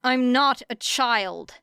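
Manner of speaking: a mild, slow indignant snap; snapping. Acted. Girl snaps at the vigilante, mildly offended. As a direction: bite back, offended but held in. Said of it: "snapped Era".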